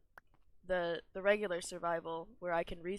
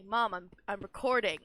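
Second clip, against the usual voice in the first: mock protest to mom; 7 dB louder than usual. Mock complaint to texting mother.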